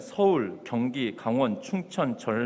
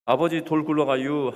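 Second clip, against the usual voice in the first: Chungcheong dialect; 5 dB louder than usual. Acted. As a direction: imitate a Chungcheong son calling out. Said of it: "충청도 사람이 얼마나 느린지". (충청도 사투리 흉내)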